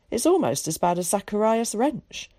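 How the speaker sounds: a hint of a chatty cultured boy. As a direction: chatter like a well-spoken schoolboy.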